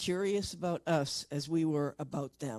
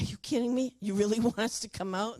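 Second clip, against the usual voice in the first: higher, amazed disbelief; can't believe the invite, laughing; incredulous; 6 semitones higher, faster than usual. Retold or imitated. To the ship's crew, incredulous and amused.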